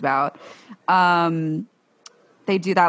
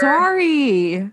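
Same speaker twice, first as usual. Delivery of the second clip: delighted gasp; 6 semitones higher than usual. Real, not acted. Friend hears the silly baby name, delighted high squeal.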